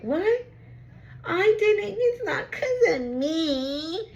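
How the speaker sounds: high whiny fake sob; mock crying. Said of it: "They wanna cry about it like".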